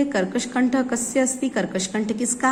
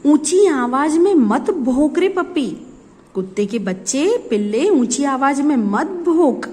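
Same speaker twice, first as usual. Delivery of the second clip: scolding the puppy; 5 semitones higher, 3 dB louder than usual. Acted. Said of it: "तो वो बोलती है".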